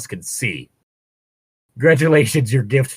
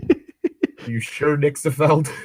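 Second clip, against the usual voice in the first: laughing; 4 semitones higher, slower than usual. Real, not acted. Laughing while teasing co-reader.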